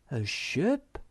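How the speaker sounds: astonished, pitch leaping up; exclaiming. A narrator's reading. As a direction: exclaim it in amazement at the sight. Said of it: "exclaimed the Snork".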